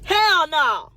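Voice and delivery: loud, high flat refusal; shouted high hell no; emphatic no. Real, not acted. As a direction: slam the door on the idea. Answering her own question emphatically.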